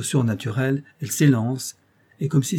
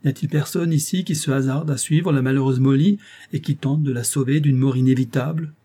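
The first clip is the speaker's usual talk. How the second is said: calls out a little louder; raised voice; 3 semitones higher, 3 dB louder than usual. Acted. Sir Thomas calls on the crowd for a rescuer, raised voice. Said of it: "en élevant la voix".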